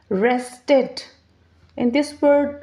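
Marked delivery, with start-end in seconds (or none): 0.1-1.0 "Rested" in two distinct beats, res, ted; split into syllables. Shown as a demonstration. Teacher introducing a two-syllable word, "Rested" split res-ted. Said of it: "So two syllables".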